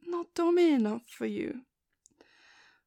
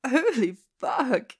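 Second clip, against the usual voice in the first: startled laugh and cry; 5 dB louder, slower than usual. Acted. To her partner after he bites, a shocked cry. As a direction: laugh breaking into a loud, slow shocked curse.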